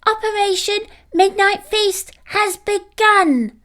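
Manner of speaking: high squeaky little puppy; a tiny pup's squeaky battle cry. A narrator's reading. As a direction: squeak it out like a tiny excited pup. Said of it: "His tiny voice squeaked out".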